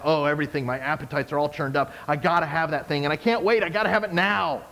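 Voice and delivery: a lightly voiced whiny craving; craving flesh voice. Preacher voicing the flesh's demands, lightly whiny and craving. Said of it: "The flesh says".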